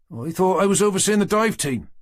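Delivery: whiny high complaining voice; moaning. Acted. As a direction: grumble it from across the room. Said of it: "heard Cooper moan".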